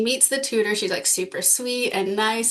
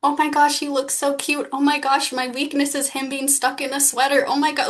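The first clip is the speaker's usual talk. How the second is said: high-pitched obsessive inner voice; 5 semitones higher than usual. Retold or imitated. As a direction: gush like a lovestruck schoolboy inside his head. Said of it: "this, like, high-pitched, obsessive voice".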